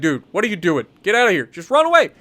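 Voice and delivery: imitating a teammate losing it; retold freak-out. Teammate Monk panicking at him over voice chat: mock alarm. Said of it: "Monk starts freaking out".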